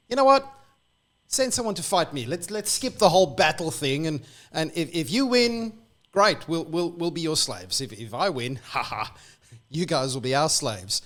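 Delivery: high, loud swaggering taunt; a retold giant bellowing his dare; boastful giant's challenge. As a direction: throw down the gauntlet like a cocky giant.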